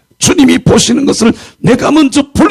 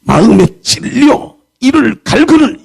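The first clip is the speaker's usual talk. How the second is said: angry crowd voice; 5 semitones higher, slower than usual. Retold or imitated. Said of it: "막 분해가지고".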